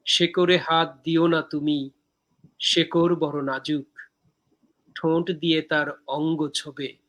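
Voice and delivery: slow, measured verse with pauses between lines; poem recitation. Acted. Poet reciting own poem from Dehokabyo to viewers, measured recitation.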